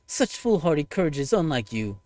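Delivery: cold, contemptuous avenger condemning humanity; scornful villain voice. Acted. Ushiwakamaru scorning the humans who killed her, contemptuous villain voice. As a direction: sneer down at the humans you despise.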